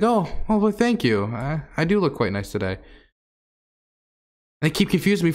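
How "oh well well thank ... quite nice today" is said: pitched up, mock-flattered thank you; coy flattered reply. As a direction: play it coy, fluttering like you've been complimented. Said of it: "I'm like".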